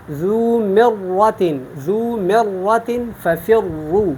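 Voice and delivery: مرۃ drawn out with a thick double R; slow ذو مرۃ, ra full and held; heavy doubled ra. Shown as a demonstration. Teacher showing ra with shadda, heavy ra. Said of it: "ذو مرۃ یہ پر ہے".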